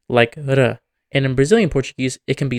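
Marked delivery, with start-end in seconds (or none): 0.4-0.8 "r" as a single tongue tap; tapped R. Shown as a demonstration. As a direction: tap the "r" lightly off the tongue tip. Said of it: "It can also be tapped".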